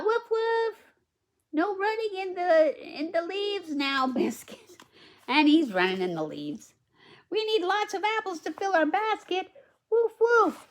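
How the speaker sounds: put-on bright, high read-aloud voice for the little girl; high storybook girl.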